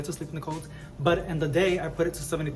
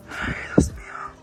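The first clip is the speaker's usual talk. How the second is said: whispered; 3 dB louder than usual. Real, not acted. Gasp at huge plant.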